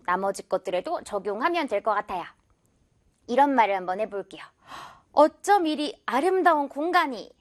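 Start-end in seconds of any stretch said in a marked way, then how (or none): 5.1-7.3 a touch of admiring wonder; mild exclamation. Acted. Teacher acting an example sentence about a lovely place, mildly exclaiming. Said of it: "이렇게 감탄문인데".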